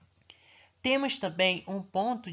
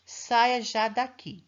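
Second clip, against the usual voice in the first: commanding example; 5 semitones higher, 5 dB louder, much slower than usual. Shown as a demonstration. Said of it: "Ele está dando uma ordem".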